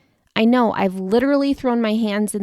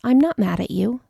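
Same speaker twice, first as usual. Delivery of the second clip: warm and caring; 2 semitones higher than usual. Retold or imitated. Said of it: "repeats it with care and warmth".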